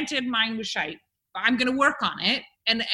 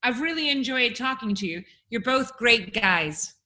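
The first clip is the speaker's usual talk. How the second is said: American accent. Shown as a demonstration. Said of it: "I'm gonna make you guys now say".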